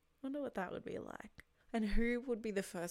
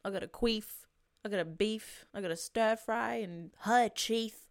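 brash mock bravado; 5 dB louder than usual. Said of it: "other times I'm like".

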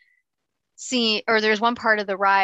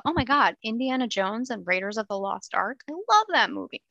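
imitating an excited fan. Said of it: "new listeners who are jumping in just because they saw".

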